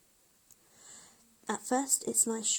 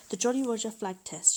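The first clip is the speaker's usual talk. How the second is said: loud shouted order; a hammed-up pirate captain's shout; 3 semitones higher, 7 dB louder than usual. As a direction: bellow it across the deck. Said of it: "shouted Captain Boswell".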